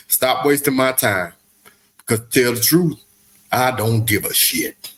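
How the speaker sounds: Morgan Freeman voice. Acted. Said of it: "you started off with an excellent Morgan Freeman voice".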